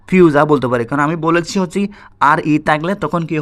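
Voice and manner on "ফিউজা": "ফিউজা" ending in an open aa; final r dropped. Shown as a demonstration. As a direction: let "ফিউজা" end on aa, no r. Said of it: "আ উচ্চারিত হবে". ("ফিউজা" শেষে র ছাড়া, আ দিয়ে)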